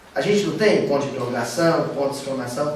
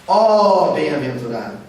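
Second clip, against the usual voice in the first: "ó bem-aventurado" louder, falling; exclaiming; 4 dB louder than usual. Shown as a demonstration. Teacher shows the class the exclamation, louder. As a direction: call out "ó bem-aventurado" in awe.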